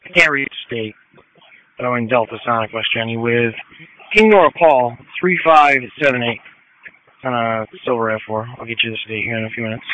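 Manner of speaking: crackly radio transmission; police radio. Real, not acted. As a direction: talk over a police scanner. Officer calling in over scanner.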